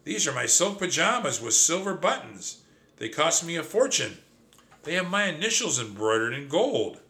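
indignant outburst, high-pitched throughout; screaming. A narrator's reading. Mouse defending his precious silk pajamas, mock screaming. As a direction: protest in a high, offended voice, short of a real scream. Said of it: "I screamed".

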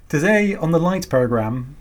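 slipping out of posh RP; everyday British voice, announcer words; modern british accent. Shown as a demonstration. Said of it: "I lost my R P accent there".

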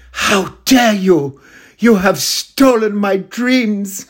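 high, slow, outraged speech; hammed-up tearful climate rage, slow and high; Greta Thunberg impression. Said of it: "like Greta Thunberg in that video where she does the speech".

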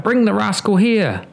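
hammed-up stern judge; judge crying out. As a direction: boom out a sentence from the roof. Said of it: "a judge who cried".

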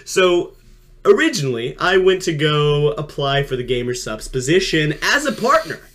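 mild sports commentator voice. Acted. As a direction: call it like a sportscaster. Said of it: "I'm just gonna do my sports commentator voice".

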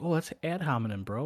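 mock opponent. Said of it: "So they're like".

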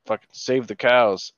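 shouted like a protest chant; mock protest shout. Friend recalls yelling at roadside cows, loud chant. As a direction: bellow it like a slogan at a rally.

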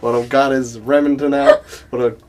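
chatting on in a put-on Southern accent. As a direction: stay stuck in Southern character. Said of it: "I can't get out of this accent".

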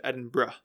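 "Edinburgh" ending in a short "bruh"; correct pronunciation. Shown as a demonstration. Podcaster summing up how it's said, Edinburgh as "Edin-bruh". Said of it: "That's how you pronounce it".

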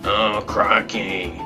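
slow, drawn-out fake Australian; bad Australian accent. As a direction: attempt a clumsy Australian accent. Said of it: "I can't do an Australian accent".

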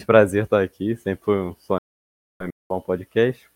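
choppy mic audio breaking up; glitchy robotic call. Real, not acted. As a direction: voice cutting out on a bad connection. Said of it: "porque tá falhando muito".

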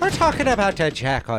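"Jackal" starting like the s in measure; Jackal said Zhackal. Pretend. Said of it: "Is it Jackal?".

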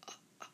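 soft breathy ah huffs; guttural breath pulses. Shown as a demonstration. Teacher demonstrating guttural stop, soft breathy huffs. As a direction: huff it quietly from the throat. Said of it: "a guttural accent to do that".

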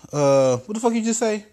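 high irritated squawk; Trump character. Acted. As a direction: snap it up high.

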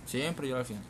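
"Siempre lloro al final" said as a hammed-up confession; theatrical sigh of a confession; mock drama. Shown as a demonstration. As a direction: ham up the line. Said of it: "haces un drama".

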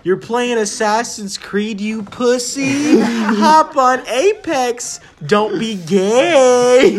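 loud, mocking jeer at a friend; mock taunt. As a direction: bark the taunt like a teasing buddy. Friend taunting over the phone.

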